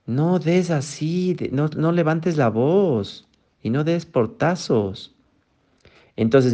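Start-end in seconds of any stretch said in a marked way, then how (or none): 0.0-5.2 mock scolding parent. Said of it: "no llegues tarde".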